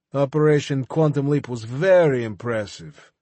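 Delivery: a hint of a mocking foreign villain, pitched a little up; sly enemy pleased with himself; lightly voiced smug villain. Levkin voiced by narrator.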